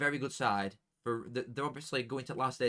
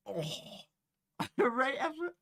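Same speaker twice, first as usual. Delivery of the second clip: laughing mockery; 14 semitones higher than usual. Real, not acted. Laughing at rival's result.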